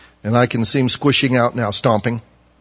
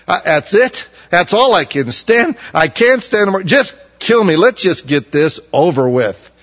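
loud, high, at-the-end-of-his-rope cry; cracking up; 7 semitones higher, 4 dB louder than usual. Acted. Jonah at the end of his rope crying out to God, loud and high. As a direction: sound like he's breaking down. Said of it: "He is cracking up right now saying".

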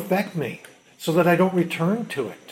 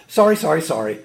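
glib apology; 2 semitones higher, 4 dB louder than usual. Retold or imitated. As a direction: toss it off like a token apology. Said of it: "what would she go".

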